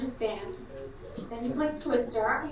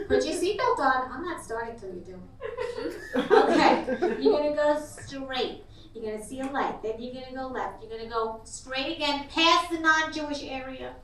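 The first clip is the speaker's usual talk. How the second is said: Jewish mother know-it-all. Acted. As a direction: give directions like a know-it-all mama GPS. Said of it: "like a Jewish mother know-it-all".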